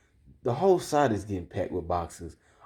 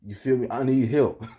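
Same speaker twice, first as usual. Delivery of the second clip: a touch of defensive protest, slightly raised pitch; retold attitude; 2 semitones higher, 4 dB louder than usual. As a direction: push back with mild indignation. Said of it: "I caught an attitude with him".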